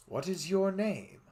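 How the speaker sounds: lightly voiced high question; high character voice. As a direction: ask it up high. Character voice in story.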